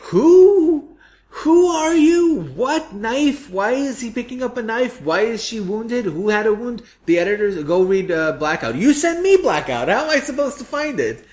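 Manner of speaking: high, loud, baffled cries of who and what; exasperated outburst. Retold or imitated. Reviewer mocking his own confusion at the comic, high exasperated yelling. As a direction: shout your confusion at the page in disbelief. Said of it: "And I'm like".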